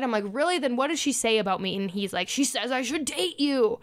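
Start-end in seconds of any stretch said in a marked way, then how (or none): 0.3-1.8 retold annoyance. Retelling her comeback to him, mildly annoyed. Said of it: "like, annoyed". 2.3-3.8 mildly angry imitation, pitched higher; retold irritation. Mimicking his testy answer to her, mildly angry. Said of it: "Why are you getting angry about that?".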